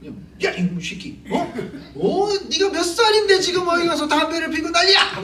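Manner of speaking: mock-furious old man yelling at a child; elder scolding a kid. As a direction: play the neighborhood elder catching a kid smoking and yelling at him. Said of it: "그러고 막 혼냈잖아요".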